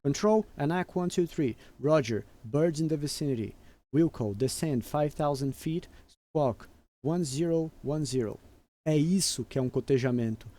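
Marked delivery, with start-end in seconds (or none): 0.0-8.4 measured pilot readback, slowed on the numbers; radio phraseology intonation. Shown as a demonstration. Pilot demonstrating a readback to air traffic control for exam students, phraseology intonation. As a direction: read it back like a pilot on frequency. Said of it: "com entonação certa de fraseologia".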